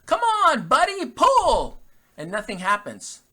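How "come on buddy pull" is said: loud, high holler at the horse; retold farmer bellowing at his horse; farmer's yell. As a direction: shout the horse on to pull, much higher and louder, slow. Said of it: "the farmer starts to yell".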